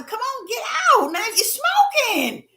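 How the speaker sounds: lauter, höher, drängend flehen; urgent pleading. Retold or imitated. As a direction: beg him urgently to get out. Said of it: "I'm begging his brother".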